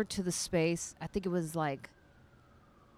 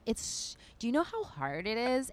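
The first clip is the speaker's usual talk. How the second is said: put-on light valley-girl voice, slow drawn-out end; whiny white girl, stretch the so; slower than usual. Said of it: "I don't know why I'm doing this white girl voice".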